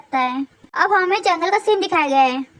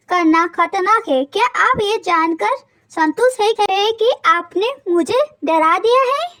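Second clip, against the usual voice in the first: angry shout; slower than usual. Retold or imitated. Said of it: "जोर से चिल्लाते हुए बोलते हैं गुस्से में".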